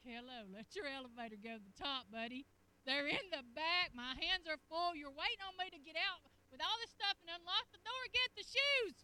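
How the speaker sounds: bossy, loud-ish nagging; exasperated nagging. Retold or imitated. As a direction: hurry him up, fed up. Retold nagging at husband.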